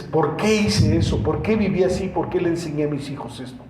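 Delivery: insistent run of questions, mildly reproachful; mild imitation of someone scolding herself; retold self-reproach. Woman reproaching herself for her past life, mildly insistent. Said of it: "me he reclamado muchas veces".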